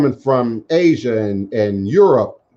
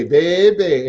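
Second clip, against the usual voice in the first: put-on a raised, drawn-out New Orleans baby; New Orleans accent; 5 semitones higher than usual. Host repeating a guest's baby in a New Orleans accent. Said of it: "in that New Orleans accent".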